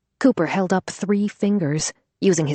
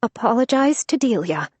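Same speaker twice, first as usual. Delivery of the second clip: wobbly voice; 7 semitones higher than usual. Acted. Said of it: "she said in a wobbly voice".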